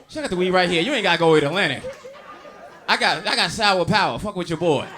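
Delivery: dealer pitch. Retold or imitated. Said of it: "This nigga was like".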